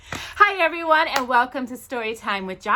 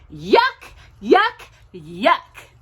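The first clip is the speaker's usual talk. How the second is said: playful disgust; 4 dB louder, much slower than usual. Acted. Mock disgust, laughing.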